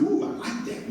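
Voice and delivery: high breathy delighted reply; thrilled by the idea; 1 delighted ooh. Retold or imitated. Excited reply to God.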